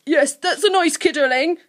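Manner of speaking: high, loud creature voice, a touch breathless; a hint of a gasp in a creature voice; lightly gasped relief. A narrator's reading. Guff dabbing smouldering skin, lightly gasping. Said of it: "gasped Guff".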